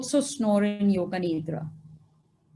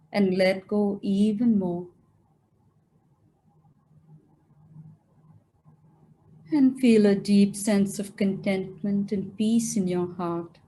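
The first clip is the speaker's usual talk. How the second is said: guided meditation; 3 semitones lower than usual. Acted. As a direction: guide them gently into stillness, phrase by phrase.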